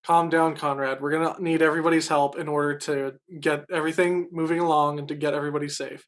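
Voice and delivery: quietly taking charge; calming reassurance. Acted. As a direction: settle a panicking man down. Captain calms a begging passenger.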